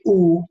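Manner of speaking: "oo" through lips made into a circle; rounded oo sound. Shown as a demonstration. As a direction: put the lips together and say "oo". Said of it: "when you are doing the oo sound".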